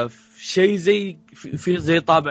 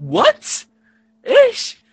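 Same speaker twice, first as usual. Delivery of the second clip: high, loud cry of disbelief; exaggerated, squeaky-high shocked outburst; mock shock; 8 dB louder, much slower than usual. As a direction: burst out high-pitched and baffled. Mock shock at vague plot.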